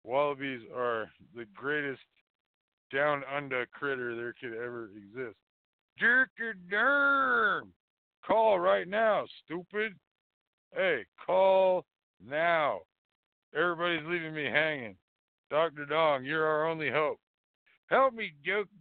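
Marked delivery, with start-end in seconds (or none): 6.0-12.8 drawn out, higher, louder calling. Real, not acted. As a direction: summon the caller, stretched slowly. Calling out to absent caller.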